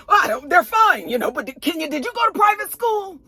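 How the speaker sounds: high, sugary fake-polite question; mock shady sweetness. The speaker digs at Kenya's schooling in a shady high voice. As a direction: needle her with fake sweetness. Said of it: "trying to be shady and mean".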